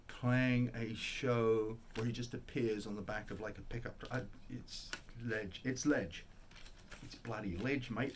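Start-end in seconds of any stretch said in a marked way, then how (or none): 4.5-8.1 mock Australian slang delivery; Australian accent. Record fan raves about a favorite, mock Australian accent. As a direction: slip into a joking Australian accent. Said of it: "all of a sudden decided to be Australian".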